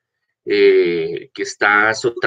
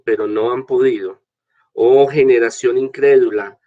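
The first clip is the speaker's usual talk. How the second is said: scripture reading; 2 semitones higher than usual. Acted. Priest reads the gospel aloud.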